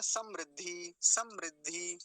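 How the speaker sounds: समृद्धि said as sam-rid-dhi, short ri after m; correct ri sound. Shown as a demonstration. Teacher introducing the next word, careful ri sound. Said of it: "समृद्धि नहीं बोलेंगे".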